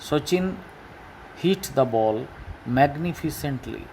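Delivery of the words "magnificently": magnificently drawn out mag-ni-fi-cent-ly; five slow syllables. Shown as a demonstration. Teacher showing the five syllables of magnificently. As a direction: sound out magnificently slowly, one syllable at a time. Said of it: "এলওয়াই দিয়ে দিলে পাঁচটা syllable".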